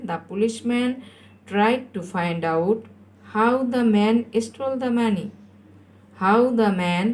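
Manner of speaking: very slow, chunk by chunk; slow dictation. Shown as a demonstration. Teacher builds the answer for pupils, very slow dictation. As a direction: draw out each word for learners.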